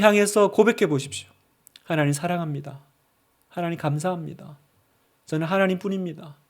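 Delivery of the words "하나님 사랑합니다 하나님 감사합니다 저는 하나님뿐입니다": much softer, hushed confession to God; quiet inner prayer. Shown as a demonstration. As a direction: pray it softly, as if in your heart. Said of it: "마음속으로 한번 기도해 보십시오".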